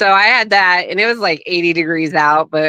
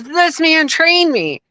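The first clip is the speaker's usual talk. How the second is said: much higher and slow; imitating awed Hogan; 11 semitones higher, slower than usual. Guest mimicking Hogan amazed her father trained him, higher, slow. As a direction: stretch it out in amazement. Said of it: "He goes".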